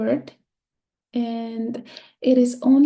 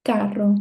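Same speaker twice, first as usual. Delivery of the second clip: "Carro" with a firm first syllable, CA; stress on CA; 3 semitones lower than usual. Shown as a demonstration. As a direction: settle on CA in "Carro". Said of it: "Ka is my stressed syllable".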